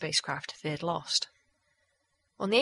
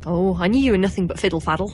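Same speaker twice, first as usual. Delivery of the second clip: pouting; 10 dB louder, faster than usual. Acted. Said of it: "Please don't pout".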